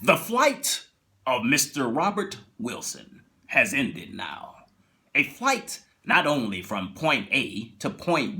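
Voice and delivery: slow, measured narrator with hushed turns; lightly done Twilight Zone narrator; Rod Serling narration. Retold or imitated. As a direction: intone it like a TV host closing the episode. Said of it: "you hear Rod Serling, he says".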